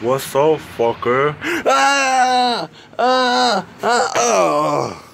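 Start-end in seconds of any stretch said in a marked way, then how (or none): 1.7-4.1 high scream, crying out; terrified scream. Real, not acted. Player screams as he is attacked. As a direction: scream in terror.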